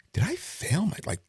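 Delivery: high rattled disbelief; panicked inner thought. Retold or imitated. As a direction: sound thrown and worried.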